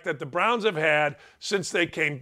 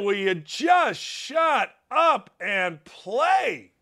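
exasperated shout; much slower than usual. Real, not acted. Host fed up with golfers, slow exasperated yell. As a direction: drag out every word in exasperation.

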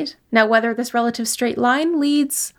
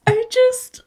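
breathless whisper; 13 semitones higher than usual. Real, not acted. Speechless at the roll.

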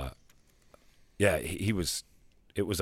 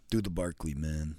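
mock coach order; lightly voiced Gruden barking a request; Gruden demanding; 3 semitones lower, 4 dB quieter than usual. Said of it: "yells at him to do impressions".

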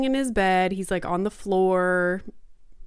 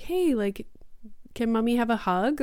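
gentle coaxing; 3 semitones higher, 3 dB quieter than usual. Retold or imitated. Mom asking her upset son for a hug, gently. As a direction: tenderly ask a little one for affection.

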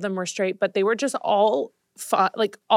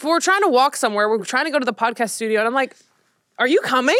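high, louder impatient calling; 4 semitones higher, 3 dB louder, faster than usual. Retold or imitated. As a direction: hurry a dawdling friend along.

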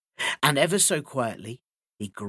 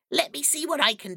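sly hissing weasel; 13 semitones higher, faster than usual. Acted. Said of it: "said the weasel".

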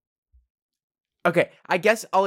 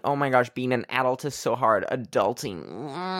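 mock whiny. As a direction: moan it like a huge struggle. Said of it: "makes it sound like".

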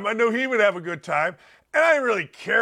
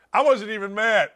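usual speaking voice

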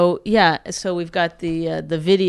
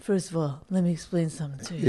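mocking imitation; 4 dB quieter, faster than usual. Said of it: "when you say stuff like that".

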